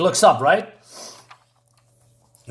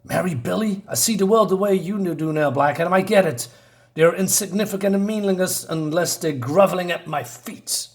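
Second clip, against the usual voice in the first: lightly voiced haughty villain, pitched up; contemptuous villain; 5 semitones higher than usual. Retelling a villain's speech about groveling, with mild disdain. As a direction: declare contempt for those beneath you, mildly theatrical.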